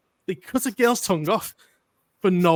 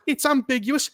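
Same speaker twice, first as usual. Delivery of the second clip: mocking quote; 6 semitones higher than usual. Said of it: "she goes".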